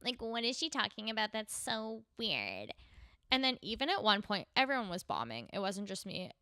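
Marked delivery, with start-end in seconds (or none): 0.0-2.7 put-on quiet, slow, dismissive teen-girl sneer; snooty cool girl. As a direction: sneer like a bored mean girl. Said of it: "the cool girls are like".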